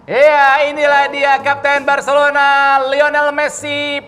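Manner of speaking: football commentator. Pretend. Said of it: "ala-ala komentator bola".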